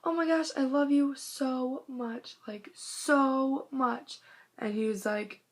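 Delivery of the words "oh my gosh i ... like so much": reenacted fan squeal. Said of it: "and I was like".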